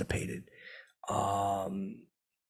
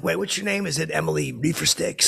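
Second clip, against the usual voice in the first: higher, teasing mock-puzzled question; hammed-up fake confusion, pitched up; 7 semitones higher, 4 dB louder than usual. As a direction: play dumb about her name, teasing. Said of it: "pretending to get her name wrong".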